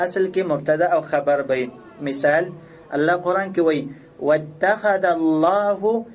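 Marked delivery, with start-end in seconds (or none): 4.3-6.1 slow, measured Arabic recitation; Quran recitation. Shown as a demonstration. Teacher quoting a verse as grammar example, slow recitation. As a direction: draw out each phrase, pausing between them.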